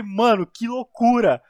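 slow, loud amazed exclamation; excited quote. Retold or imitated. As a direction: blurt it out amazed. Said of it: "Eu falei". (empolgado e maravilhado)

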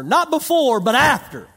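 preacher stressing the timing; emphatic contrast. Acted. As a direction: hammer the contrast home. Contrasting before and after.

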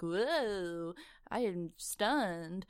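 slow, dazed put-on reaction; mock stunned. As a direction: imitate someone reeling from a punch, drawn out. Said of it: "being punched and kinda like".

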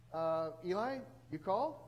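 put-on hesitant boy asking, rising at the end; acted puzzled query; tentative question. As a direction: check uncertainly if you were called. Boy timidly asks sleeping priest.

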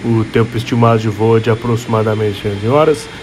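airline cabin announcement voice; flight attendant. Pretend. Podcast intro as flight announcement. (comissária de bordo anunciando o voo)

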